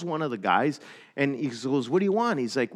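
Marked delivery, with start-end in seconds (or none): 1.9-2.4 gruff demand. Retold or imitated.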